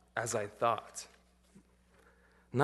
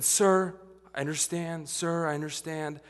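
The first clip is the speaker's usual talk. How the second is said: calm. Retold or imitated. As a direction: settle him down gently, no heat. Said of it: "And I just calmly said".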